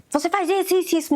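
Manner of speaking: bossy accusing. Retold or imitated.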